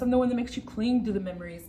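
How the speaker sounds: looming avenger speaking to camera; villain voice. Acted. A dark avenger threatens the viewer menacingly.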